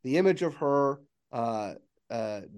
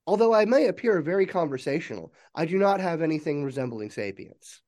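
lightly voiced AI disclaimer, starting high; a touch of programmed assistant politeness; 4 semitones higher than usual. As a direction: explain it like a helpful computer. Game master voices non-sapient AI reply.

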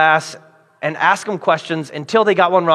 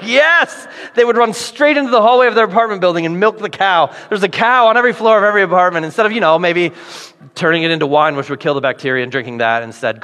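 mock sarcastic professor; faster than usual. Professor mocking the answer.

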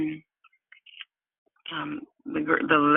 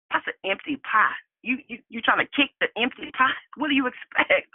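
imitating a friend's higher, disbelieving challenge; incredulous friend; 6 semitones higher than usual. Friend asks why she kicks an empty pot, retold incredulity. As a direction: question it in rising disbelief, pitched up.

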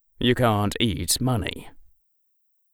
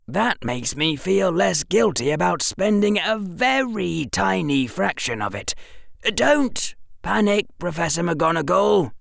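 put-on lightly raised boyish voice, musing; a bright boy working it out aloud; clever boy; 10 semitones higher than usual. A narrator's reading. Harry voiced by narrator.

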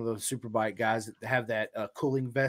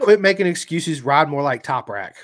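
stern dad voice; 7 dB louder than usual. Retold or imitated. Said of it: "He's like".

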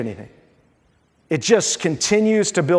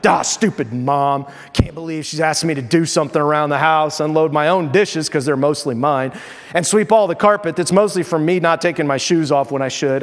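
put-on sulky teen; 3 semitones lower than usual. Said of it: "Now what's your response to that?".

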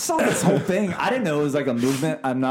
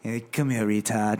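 lower, softer come-on; softer affectionate tease; mock term of endearment; 6 semitones lower, 4 dB quieter than usual. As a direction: coax it like a pet name. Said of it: "is it term of endearment".

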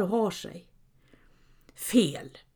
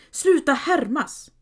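insistent annoyance; 6 semitones higher than usual. Acted. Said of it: "sa jag ju".

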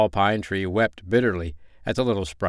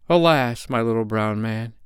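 sorrowful pine tree. A narrator's reading. The pine tree answers the sprite.

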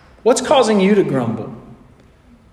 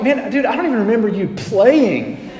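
chuckling teasing friends; teasing old teammates through a laugh; laughing disbelief; 3 semitones higher than usual. Retold or imitated. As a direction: laugh while poking fun. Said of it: "you're like".

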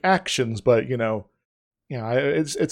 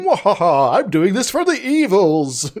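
hammed-up cartoon villain cackle; sneering panto villain; 5 semitones higher, 3 dB louder than usual. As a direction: twirl the mustache, gloat like a villain. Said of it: "twiddling your mustache and going".

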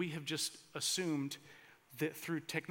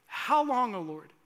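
higher and loud, pleading; loud cry; 6 semitones higher, 8 dB louder than usual. Acted. Sermon cry to God.

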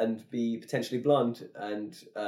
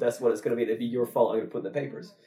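mock threatening applicant; 6 dB louder than usual. Applicant threatening the employer who won't hire him, mock loud demand. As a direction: push it like a whiny threat.

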